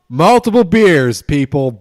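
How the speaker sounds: loud, high and slow; drawn-out victory shout; excited boast. Real, not acted. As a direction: crow it out proudly. Celebrating beers, repeats phrase.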